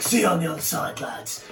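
British soldier-style send-off; pretend British. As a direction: play a British squadmate signing off. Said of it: "I'll pretend to be British".

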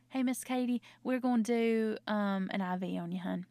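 friendly, slightly lifted bedside chat ending on "hun"; sweet-talking nurse. Acted. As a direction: talk to a patient with a Southern "hun". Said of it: "that feels very technical".

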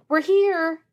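loud, high call into the house; shouting. A narrator's reading. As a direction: call out loudly announcing arrival. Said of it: "he shouted".

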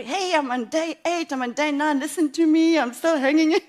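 loud, high, chirpy call; excited phone update. Retold or imitated. Phoning every friend to report her day count, excited. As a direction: announce it proudly down the phone.

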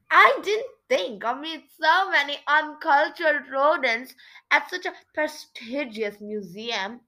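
a touch of snooty contempt; mildly haughty complaint; disdainful. Acted. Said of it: "he said with a sniff of disdain".

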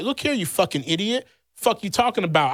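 reliving his angry snap back; heated comeback. Retold or imitated. His heated retort, retold.

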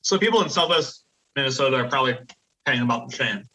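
talking around a piece of ice; mouth full. Real, not acted. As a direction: speak with ice in your mouth. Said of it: "I have a piece of ice in my mouth".

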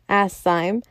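ordinary delivery

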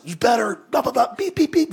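mock cussing out. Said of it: "just, like, cussing him out".

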